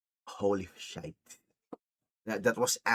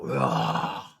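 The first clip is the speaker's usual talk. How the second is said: drawn-out low mock wail; mock scream. Imitating possessed Nikki's scream, mock wail. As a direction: imitate a possessed scream without full volume. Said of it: "Nikki screamed like".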